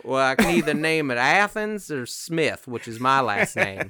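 a folksy Texan settler pondering; Texas accent. Retold or imitated. Town founder naming the city, Texas accent. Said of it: "Is that an offensive accent?".

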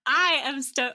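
loud, high, excited burst; a little too loud. Real, not acted. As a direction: blast the mic with enthusiasm. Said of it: "I was a little loud".

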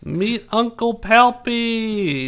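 high, loud, slow goofy announcer. Pretend. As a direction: stretch it out cheerfully. Silly parody voice.

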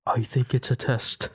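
lightly voiced Irish accent; put-on Irish accent. Shown as a demonstration. Host answering the banshee question, Irish accent. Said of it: "theory in an accent".

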